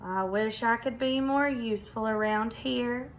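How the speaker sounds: moaning peacock. Acted. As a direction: sigh it out, feeling useless. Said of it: "moaning and groaning".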